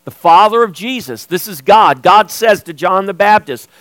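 emphatic sermon delivery with measured pauses; preaching. Real, not acted. Preacher telling church the Spirit bears witness, emphatic preaching. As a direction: preach it with firm stresses on key words.

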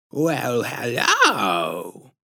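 drawn-out, squishy-throated lisping greeting; patronizing lisp. A narrator's reading. Strange woman greeting the parents at the door, patronizing lisp. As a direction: greet them in a creepy, condescending lisp. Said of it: "in a patronizing, squishy-throated lisp".

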